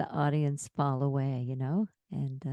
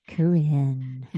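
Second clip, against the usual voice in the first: radio voice; 3 semitones lower, 4 dB louder than usual. Pretend. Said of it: "testing my radio voice".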